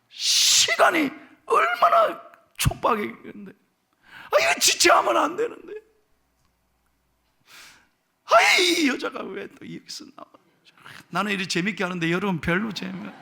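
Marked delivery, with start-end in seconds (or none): 0.1-10.3 high, strained, impatient father; anxious father. Retold or imitated. Pastor acting Jairus annoyed by the woman, high and impatient. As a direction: fret at the delay as the desperate dad. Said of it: "아버지 입장에서 보면요, 얼마나 속상하겠어요".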